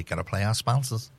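bad American accent on gotta play; a clumsy attempt at an American accent. Shown as a demonstration. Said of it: "That's the worst American accent ever".

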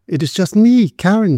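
high, timid little voice; small high voice, only nominally a whisper. A narrator's reading. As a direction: answer timidly, pitched well up. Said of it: "she whispered".

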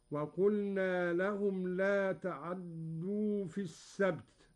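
تعدوا said "ta'adduu", brief a and doubled d; snatched vowel on ayn. Shown as a demonstration. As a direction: pass lightly over the ayn in تعدوا into doubled d. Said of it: "واختلاسها هكذا".

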